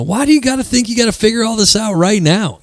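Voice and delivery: high, lightly voiced young woman; girl coaching friend. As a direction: imitate a breezy friend giving advice.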